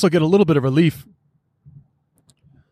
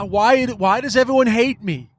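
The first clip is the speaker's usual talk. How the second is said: put-on whiny child; 6 semitones higher than usual. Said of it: "he literally sounds like ... an immature child".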